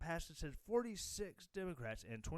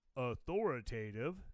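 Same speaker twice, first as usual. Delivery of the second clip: sarcastic, mocking put-on voice on the word authoritative; 5 semitones lower, 5 dB louder than usual. Complaining about news outlets, with a mocking voice on 'authoritative'. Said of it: "so I had to do a voice to mock it".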